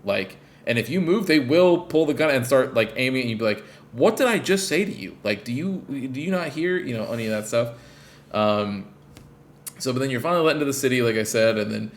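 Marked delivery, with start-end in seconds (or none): 3.9-7.7 angry guard. Retold or imitated. Guards barking orders.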